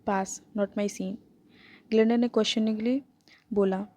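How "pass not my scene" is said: slow, dismissive pass; flat dismissal. Acted. Killian turning down Nico's party, slow and dismissive. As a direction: wave the idea off slowly. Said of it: "immediate rejection दिया".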